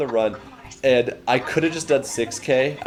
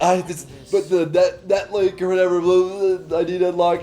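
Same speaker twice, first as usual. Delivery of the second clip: higher, rushed and flustered; 8 semitones higher than usual. Retold or imitated. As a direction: blurt it out breathlessly. Rushed, flustered phone explanation.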